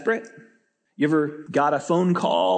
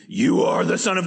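lightly performed outcry; unclean spirit crying out. Shown as a demonstration. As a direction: try out a spirit's cry, half-heartedly. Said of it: "Maybe we should do".

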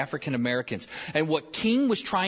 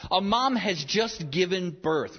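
tender; 4 semitones higher, slower than usual. Shown as a demonstration. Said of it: "feel them emotionally".

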